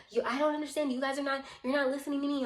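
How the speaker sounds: imitating her high-pitched protest; agitated complaint. Woman complaining nobody listens to her, agitated. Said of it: "she started being like".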